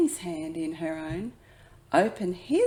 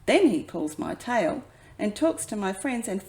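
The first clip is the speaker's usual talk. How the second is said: put-on child's complaint; 6 semitones higher, 6 dB louder than usual. A narrator's reading. Child complaining about little brother.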